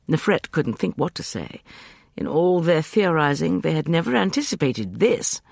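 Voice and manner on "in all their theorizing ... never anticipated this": ordinary delivery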